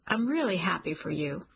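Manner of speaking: mean it, but let the sting slip through; hurt showing through. Acted. Cliff answers Jolene's refusal, sincere with a hint of hurt. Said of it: "lets the hurt in his voice slip through".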